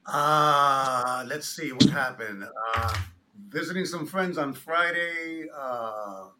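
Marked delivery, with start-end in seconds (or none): none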